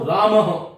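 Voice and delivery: रामः with visarga echoing its vowel; ramah with echo vowel. Shown as a demonstration. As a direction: say रामः ending in a breathy "ramaha". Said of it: "मैं बहुत बार सुनता हूं".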